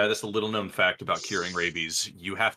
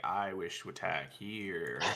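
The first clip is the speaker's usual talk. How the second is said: soft, slow, mock-formal declaration; quiet formal voice; 2 semitones lower, 10 dB quieter than usual. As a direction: speak it softly like a stiff knight. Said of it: "now we could be like".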